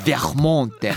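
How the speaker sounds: ベルモンテ said like French, rolled R; mock French Vermont. Host joking about how Americans say Vermont, mock French. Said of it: "はっ、はっって言ったりとかするんで".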